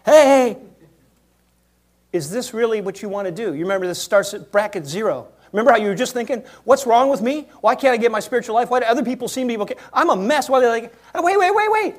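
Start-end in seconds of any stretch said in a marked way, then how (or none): 0.1-0.6 calling out. Acted. Spirit calling out loudly. 6.6-12.0 anxious inner voice. Retold or imitated.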